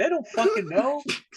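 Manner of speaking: acted-out laughing through words, very high-pitched. Retelling a player's line over the ball: imitating someone laughing while talking. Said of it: "you know he was laughing when he said it".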